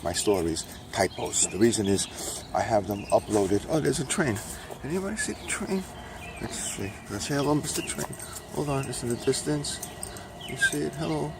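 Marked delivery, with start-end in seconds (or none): 4.8-11.3 playful high voice. Real, not acted. Greeting a passing train.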